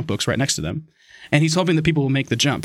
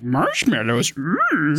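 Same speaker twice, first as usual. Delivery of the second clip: mock-dazed craving, ending in a hum; entranced sweet-lover; much slower than usual. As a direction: imitate someone drooling over sweets. Imitating customers entranced by marshmallows.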